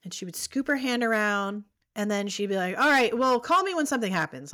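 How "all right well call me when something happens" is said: a touch of brisk annoyance; mildly annoyed. Retold or imitated. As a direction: brush her off with mild annoyance. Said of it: "like, annoyed almost".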